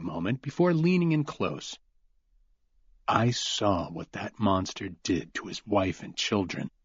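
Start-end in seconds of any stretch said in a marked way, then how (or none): 3.1-6.7 snarled. Acted. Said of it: "Cooper snarled".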